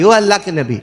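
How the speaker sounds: restrained first call to someone ahead. Acted. Passenger hailing the prophet from behind, mild call. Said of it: "تو اس نے آواز دی".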